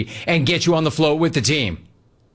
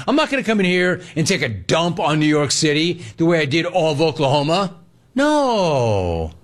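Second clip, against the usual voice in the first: higher, breezy mock-Gino voice; imitating Gino; 3 semitones higher than usual. Host mocking Gino's friendly words, lightly imitated. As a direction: put on Gino's cocky charm. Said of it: "Gino was saying things like".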